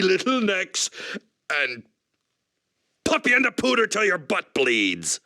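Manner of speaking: gruff character. Acted. Same character retake.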